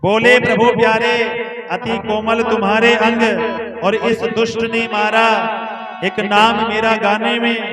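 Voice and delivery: half-sung poem in a gentle, tender cadence; devotional verse recital. Acted. Preacher reciting Narasimha's tender words to Prahlad.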